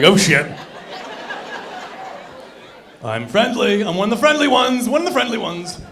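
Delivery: mock nervous pleading. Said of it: "Then I'll be like".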